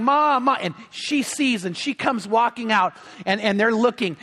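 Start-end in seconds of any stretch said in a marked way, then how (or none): 0.0-0.6 mild mock yell, pitch raised; higher, drawn-out calling for Mom; retold screaming. Son on the jetty calling to his mom, mild mock scream. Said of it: "standing there screaming, yelling".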